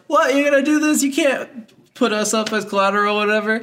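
put-on high, indignant girl voice; mock outraged women. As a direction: squeal it like the offended girls.

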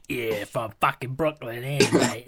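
put-on a failed Brooklyn accent drifting British, slow; lightly voiced, badly done Brooklyn accent. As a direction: try a Brooklyn accent and miss. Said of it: "most Brooklyn sounding guy".

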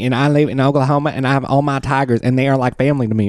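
high, rattling-quick tiger showman imitation; Joe Exotic. Host as the Tiger King introducing himself, high fast impression. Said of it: "He kinda talks like this".

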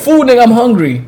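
put-on high, loud baby demand; comic high-pitched demand. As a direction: play a hungry baby ordering food. Talking baby demanding food.

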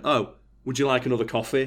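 mock-polite sarcastic offer; sweetly sarcastic, faintly mocking; lightly sarcastic offer of coffee to the penny-pinching boss. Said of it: "proper sarcastic way".

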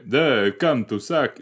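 slow attempt at a Transylvanian accent; lightly faked vampire Transylvanian. Host testing out the vampire accent, tentative Transylvanian. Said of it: "Okay, Transylvania, right?".

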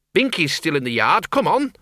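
put-on high, urgent old woman voice. Miss Flitworth urges.

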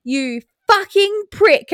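put-on high, slow little-girl repeat of the swear; toddler voice. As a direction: play the proud toddler parroting mum. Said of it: "I said".

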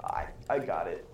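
breathy low whisper. Acted. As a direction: whisper it to yourself. Elf whispers a quote.

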